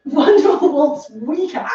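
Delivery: slow, puzzled questioning repeat. Real, not acted. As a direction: ask it back, bemused. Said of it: "I didn't know that".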